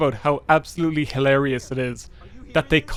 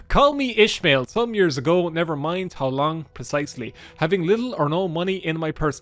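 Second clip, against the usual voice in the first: lightly theatrical book reading; storybook narration with a light flourish; reading aloud. Acted.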